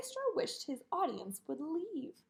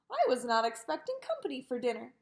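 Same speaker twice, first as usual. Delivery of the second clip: mumbling through a mouthful; mouth full; faster than usual. Acted. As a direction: talk around a mouthful of meatballs. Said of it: "she mumbled with a mouthful of meatballs".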